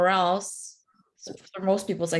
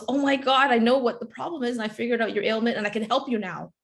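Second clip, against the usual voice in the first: mildly excited, higher-pitched quote of a doctor; 4 semitones higher, faster than usual. Retold or imitated. Doctor tells patient he found the problem, excited. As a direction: play a doctor eagerly breaking news. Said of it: "he goes so excited".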